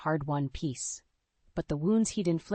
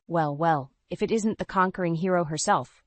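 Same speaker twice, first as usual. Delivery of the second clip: mocking, smug sneer at her; 3 dB louder than usual. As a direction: sneer it with cocky contempt. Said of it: "he sneered".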